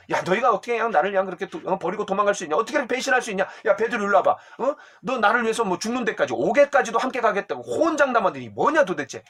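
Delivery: fast, half-acted scolding with pitch jumps; Jesus as he did not speak, mock scolding. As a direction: pretend to scold the runaway disciples. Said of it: "막 삿대질하고 야단친 것이".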